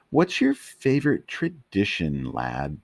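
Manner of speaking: high Scottish lilt on the question; Scottish accent. Acted. Scottish dog asking Tramp, Scottish accent. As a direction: ask it in a Scottish burr.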